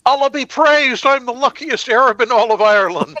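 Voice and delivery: high, loud mock-Arab accent, overjoyed; Arab attacker. The attacker answers the Jewish man, in a high, loud mock-Arab accent.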